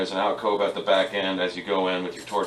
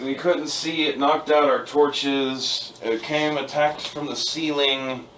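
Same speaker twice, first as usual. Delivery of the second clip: dwarf NPC voice; 6 semitones higher, slower than usual. Acted. GM voices dwarf describing attack.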